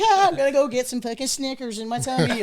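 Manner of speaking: put-on bouncy, excited teen voice about snacks; a young guy's happy mock glee at candy; giddy excitement. Young soldier excitedly heading to snacks, gleeful. Excited self in retold story.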